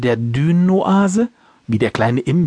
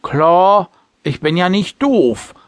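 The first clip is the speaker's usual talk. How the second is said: defiant; 3 semitones higher, slower than usual. Acted. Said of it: "antwortete er trotzig".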